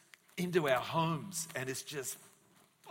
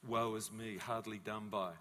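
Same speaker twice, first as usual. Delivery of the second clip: woe is me; 4 semitones lower than usual. Acted. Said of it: "and he feels".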